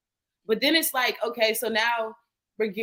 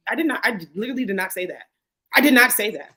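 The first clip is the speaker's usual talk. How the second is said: indignant retelling; 4 dB louder than usual. Retold or imitated. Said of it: "And I'm like".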